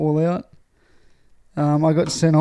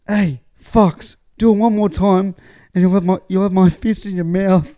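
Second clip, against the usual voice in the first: imitated heavy threat, pitched up and forceful; mock menacing threat; scary sports fan; 3 semitones higher, 4 dB louder than usual. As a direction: act out a big intimidating fan warning off youngsters. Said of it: "scary looking".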